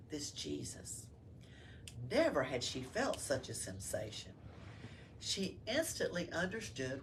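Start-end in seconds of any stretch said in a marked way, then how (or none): 0.1-1.1 whispered, in awe; awed whisper over the child; hushed awe. A narrator's reading. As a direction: breathe the name softly. Spider sees child.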